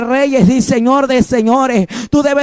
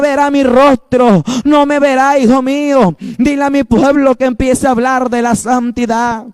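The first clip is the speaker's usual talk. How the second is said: fervent preaching. Acted. God's call to holiness, preached.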